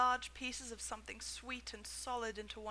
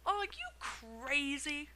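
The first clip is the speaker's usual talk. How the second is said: shout; 4 semitones higher, much slower than usual. A narrator's reading. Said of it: "shouted a woman".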